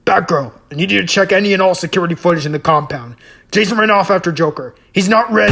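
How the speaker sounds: urgent command. Acted. Batman urgently radios Batgirl.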